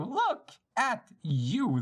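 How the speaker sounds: drawn-out, very slow gloating taunt; slow mocking villain. Villain to captured girl, slow drawn-out taunt. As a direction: savor every word of the jeer.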